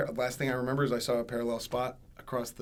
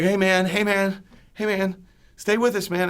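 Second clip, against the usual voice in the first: high, loud, insistent calling; re-enacted urgent shouting; 8 semitones higher, 10 dB louder than usual. Friend keeping crash victim conscious, imitated urgent shouting. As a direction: imitate a friend yelling to rouse someone.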